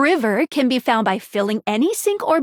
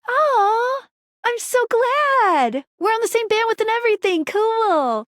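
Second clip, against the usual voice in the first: high, thrilled gush; gushing delight; 9 semitones higher than usual. Acted. Gushing at being liked.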